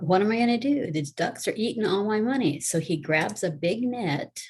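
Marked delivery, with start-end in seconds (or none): 0.0-2.6 higher, panicky cartoon cat; voicing a cat freaking out as ducks eat his money. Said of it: "And he's freaking out".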